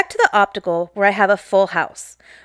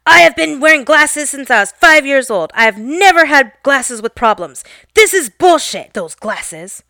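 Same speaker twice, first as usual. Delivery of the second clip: put-on louder, an old man ranting about his glasses; imitated yell; 3 semitones higher, 4 dB louder than usual. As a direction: retell the customer's rant with a raised voice. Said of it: "He continues to yell as loud as possible".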